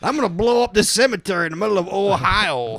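mock villain. Mock terrorist voice.

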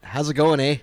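mild put-on Canadian accent, a bit hammy. Reading a Canadian listener's email to cohost, mock Canadian accent. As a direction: read the email like a joking Canadian. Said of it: "your Canadian accent's worse than mine".

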